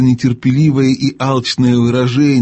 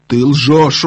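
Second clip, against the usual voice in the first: exclaiming; 3 semitones higher than usual. Acted. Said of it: "воскликнула королева".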